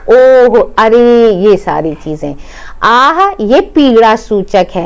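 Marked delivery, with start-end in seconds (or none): 0.1-1.3 slow, drawn-out ouch; teacher demonstrating a pain word; demo pain interjection. Shown as a demonstration. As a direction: show how a cry of pain sounds. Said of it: "कष्ट सूचक अव्यय".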